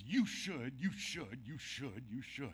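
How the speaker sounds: mock nagging. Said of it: "somebody comes up to you like this".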